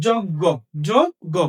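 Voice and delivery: যোগ্য said "joggo", second time stronger; demonstrated pronunciation. Shown as a demonstration. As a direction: model যোগ্য as "jog-go", twice. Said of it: "তাহলে কি হলো".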